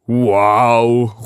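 loud amazed "Wow"; a boy thrilled on takeoff; excited cry. A narrator's reading. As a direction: call it out in wonder. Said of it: "ruft er".

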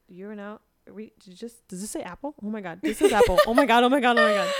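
rising into an excited shriek; freaking out with joy; screaming crying fan. Retold or imitated. Reading the Apple Podcasts email.

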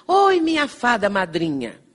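imitating a joyful call from afar, drawn out; mild retold holler, slow and stretched; grito imitado. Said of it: "ela gritou assim". (grito imitado, alongado)

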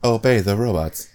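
flat even robot voice. Pretend. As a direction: speak like a deadpan robot. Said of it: "I am robot".

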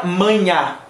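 maña ending in an oral A; manha without tilde. Shown as a demonstration. Teacher naming the existing word, oral ending. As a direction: say maña with an open final vowel. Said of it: "Si no tiene la culebrita".

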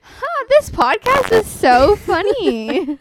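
high, slow, over-the-top voice; hammed-up impressed listener; mock smug listener. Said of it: "I like how you're like".

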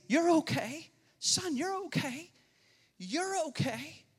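a hint of a father soothing; comforting dad. Father soothing his scared son in his arms. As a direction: gently reassure a frightened child.

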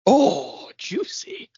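high, swooping mock echo; mimicking the clip. Co-host echoes the played clip, high mock voice. Echoes the clip's last words.

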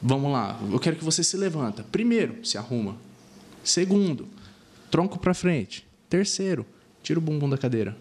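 measured coaching commands, one at a time; step-by-step verbal cueing. Shown as a demonstration. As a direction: count off each step, then give the command. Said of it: "essas facilitações verbais".

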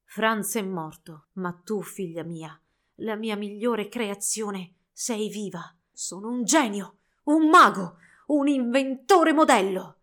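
il vecchio inventore che si esalta, sempre più forte; vanto trionfante. Acted. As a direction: proclama il tuo genio con orgoglio crescente. Inventore vanta la sua creazione. (inventore esaltato davanti alla bambola, vanto trionfante)

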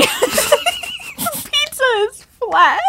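slow words through laughter; laughing. Real, not acted.

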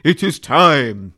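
slow, loud lisping servant voice; hunchback assistant. Acted. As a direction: draw it out like a cringing hunchback. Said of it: "lisped Igor".

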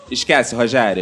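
low, dismissive mother shutting it down; firm mom voice. Retold or imitated. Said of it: "minha mãe foi sensata".

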